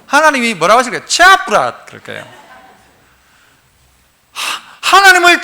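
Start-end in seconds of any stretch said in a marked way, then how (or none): 1.1-1.8 higher, curt dialect brush-off; imitated exasperated rebuff; mock dismissal. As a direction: dismiss it as an unimpressed God. Voices God dismissing the feeble praise.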